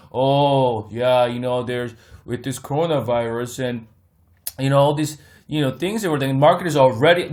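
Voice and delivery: lightly voiced excuse-making guru; a hint of a pundit explaining away the drop; mocking the same YouTuber now turning bearish; mock bozo pundit. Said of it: "The same bozo".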